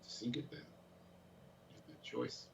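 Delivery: slow, whispered menace; ominous whisper. Pretend. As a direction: breathe it slowly like a threat. Pressuring friend over putt.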